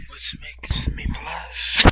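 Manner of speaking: whispered line dissolving into laughter; laughing through the words; giggling. Real, not acted. Reader giggles at the blushing.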